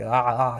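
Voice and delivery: ah squeezed from the throat; soft throaty demonstration of ah; guttural Ain sound. Shown as a demonstration. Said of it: "this guttural sound from, like, the throat".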